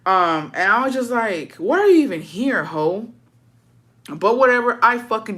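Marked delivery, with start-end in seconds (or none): 1.6-3.1 indignant. Retold or imitated. Granddaughter challenging grandma in the visiting area, indignant. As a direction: demand it in mock outrage.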